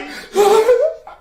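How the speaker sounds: sharp high gasp with a laugh; shocked gasp. Retold or imitated. Fan reenacting shock at the finale, high laughing gasp. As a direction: gasp as if hit by the ending. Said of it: "I was literally like".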